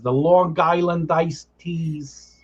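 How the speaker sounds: slow, drawn-out Long Island accent, lightly imitated; a mild take on the aunt's Long Island accent. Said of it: "she has a very strong accent".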